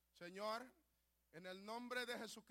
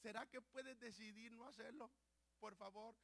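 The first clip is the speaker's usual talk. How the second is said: much softer, pleading gently; tender God; 7 dB quieter than usual. Retold or imitated. God tenderly pleading with his child, softly. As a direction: plead like a loving father. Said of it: "te está diciendo".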